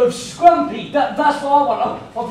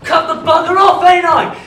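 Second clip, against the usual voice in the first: laughing; 4 semitones higher, 6 dB louder than usual. Acted. Laughing boast about cut thumb.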